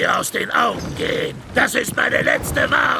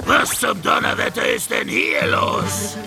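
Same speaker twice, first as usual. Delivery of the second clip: angry captain's roar; outraged shouted demand; furious bellow; 5 semitones lower than usual. Acted. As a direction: bellow at the idle crew. Captain furious at idle crew.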